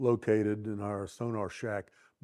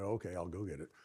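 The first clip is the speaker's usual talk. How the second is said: resigned giving in; 5 semitones lower, 13 dB quieter, faster than usual. Retold or imitated. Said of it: "so I said".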